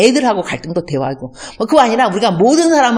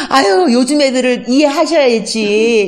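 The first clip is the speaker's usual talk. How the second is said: pleading daughter-in-law; 5 semitones higher, 3 dB louder, slower than usual. Retold or imitated. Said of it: "이렇게 말하면 안 되지".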